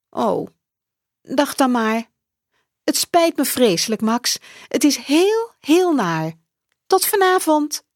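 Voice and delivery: hurried motherly excuse; apologetic mother. Acted. Mother on the phone from work, high and hurried.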